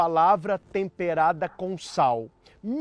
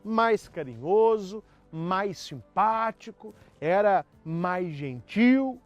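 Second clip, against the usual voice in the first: lightly voiced wife, higher-pitched in places; retorting wife; 4 semitones higher than usual. Wife answers husband about her ex-boyfriend, mock retort. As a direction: hit back with a higher, acted comeback. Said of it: "E a mulher disse".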